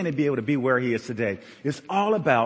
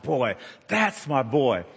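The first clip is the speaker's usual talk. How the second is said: proud murmur; much slower than usual. Retold or imitated. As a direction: let it out slowly like a proud dad. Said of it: "I was like".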